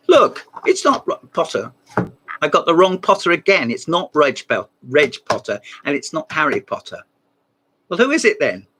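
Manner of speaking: mock-indignant phone protest, pitch jumping up; exasperated. Presenter corrected by a phone caller, exasperated.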